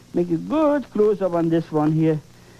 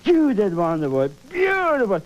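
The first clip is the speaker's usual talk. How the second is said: self-praise. Pretend. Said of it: "Finish up and say".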